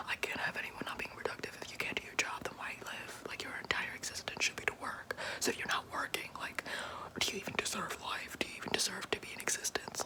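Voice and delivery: soft unvoiced whisper, close to the mic; ASMR whisper. Boss whispering asides to the listener, hushed.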